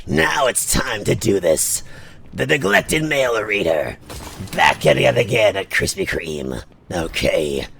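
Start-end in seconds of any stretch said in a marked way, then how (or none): 0.1-4.0 slow, dragged villain voice; Shigaraki voice. Acted. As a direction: drag the words like a villain. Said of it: "I get to sound like Shigaraki".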